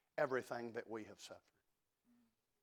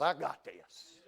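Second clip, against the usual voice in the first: confident assurance; 2 semitones higher, 4 dB louder, slower than usual. Retold or imitated. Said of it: "I need a God that says".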